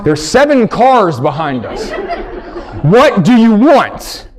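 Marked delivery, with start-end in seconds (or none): 2.8-4.3 impatient. Acted. Impatient husband repeats.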